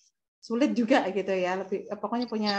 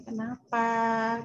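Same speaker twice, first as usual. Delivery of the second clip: slow, gentle, lowered voice asking why; lowered calm intonation; much slower than usual. Shown as a demonstration. Parent calmly asking an angry child what's wrong, slow and gentle. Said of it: "intonasinya kalau bisa diturunin".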